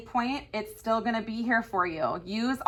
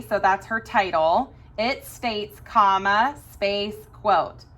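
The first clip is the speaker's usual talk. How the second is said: dictating. Shown as a demonstration. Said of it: "look at the quotation marks and the commas".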